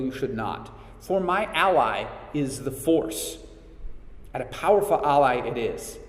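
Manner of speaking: Yoda voice. Retold or imitated. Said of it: "And then Yoda says".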